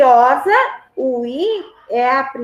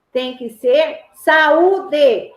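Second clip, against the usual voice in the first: slow example; much slower than usual. Shown as a demonstration. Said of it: "Lembra lá, ó?".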